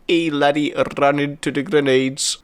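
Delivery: bad Scottish accent. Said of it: "I can't do a Scottish accent".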